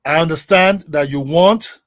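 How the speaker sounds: slow, deliberate repetition with long pauses; measured, word-by-word slow delivery; very slow speech. Real, not acted. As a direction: spell it out slowly for a listener. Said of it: "let me speak very slowly now".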